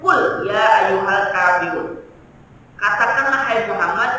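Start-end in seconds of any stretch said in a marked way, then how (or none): 0.0-1.9 lantang dan lambat; bacaan lantang. Retold or imitated. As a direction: serukan ayat dengan lambat. (seruan ayat lantang dan lambat)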